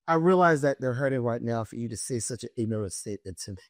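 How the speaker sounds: icy comeback. Retold or imitated. Cold retort to the teacher.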